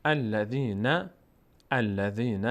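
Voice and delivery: الذین recited slowly from a clear "a"; measured, syllabic الذین; opening fatha. Shown as a demonstration. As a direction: start الذین on "al", drawing out the syllables.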